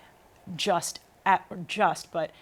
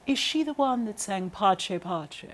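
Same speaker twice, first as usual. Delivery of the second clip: slow, grand diva voice with a laugh; a laughing take on a stately diva; imitating a famous opera singer; 2 semitones higher, slower than usual. Singer quoting a famous opera singer asking about her. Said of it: "It sounds just like her".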